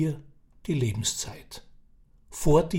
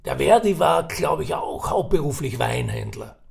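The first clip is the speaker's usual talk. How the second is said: put-on raised, chatty old Viennese man; old café gossip; 3 semitones higher, 3 dB louder than usual. Old man sizing up Ferdinand at the café, chatty. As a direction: spin the yarn like a knowing old uncle.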